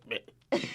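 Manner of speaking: "British" hushed, T swallowed; dropped T. Shown as a demonstration. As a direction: leave the T out of "British". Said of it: "You don't say the T's".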